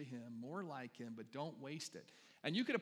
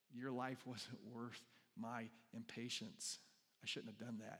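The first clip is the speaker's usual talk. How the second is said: slow and softer, heavy with remorse; quiet regret; 3 semitones lower, 5 dB quieter, slower than usual. Retold or imitated. Pastor voicing David's remorse to his men, slow and soft. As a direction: say it like a confession.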